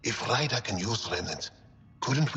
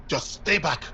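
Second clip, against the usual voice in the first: raised, wary warning; alarmed warning; 4 semitones higher, 4 dB louder than usual. Acted. Researcher warning off an unknown alien, alarmed. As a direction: warn the stranger off, on edge.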